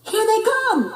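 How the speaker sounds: high, loud alarm; alarmed cry. Acted. Pup warning friends, high loud alarm. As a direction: warn everyone.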